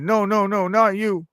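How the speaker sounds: quick high back-pedal; high, insisting denial. Retold or imitated. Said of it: "I said".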